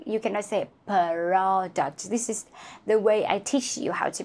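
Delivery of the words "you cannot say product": slow, stress on "You"; slow warning. Shown as a demonstration. Teacher warning students, slow warning. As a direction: lean on "You" and draw the line out. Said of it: "you cannot separate the sound".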